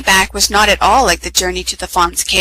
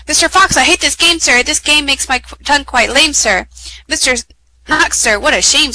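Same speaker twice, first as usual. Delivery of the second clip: whiny Mr Knox voice; 5 semitones higher than usual. Acted. Knox complains in verse.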